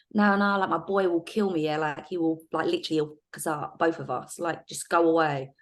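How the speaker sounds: put-on street-girl brush-off in London accent. Undercover officer warning the dealer about her boy, in street accent. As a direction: lightly put on a street accent to warn him off. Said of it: "my best street accent".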